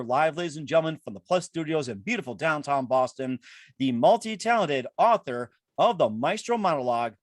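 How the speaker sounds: announcer-style guest introduction; show announcer. Acted. Host presents the author live from Boston, announcer introduction.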